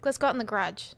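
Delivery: soft, offhand line with "garage" squashed to "gradge"; casual, quiet "garage" as gradge; fast casual garage. Shown as a demonstration. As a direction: run "garage" into one quick syllable. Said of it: "Like you say it so fast".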